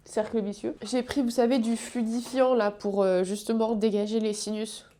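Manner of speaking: stuffy nose from hay fever; blocked nose. Real, not acted. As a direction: talk through blocked sinuses. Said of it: "Comme on peut entendre".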